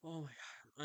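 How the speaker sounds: sleepy yawn; said while yawning. Real, not acted. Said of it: "I'm so sorry for yawning".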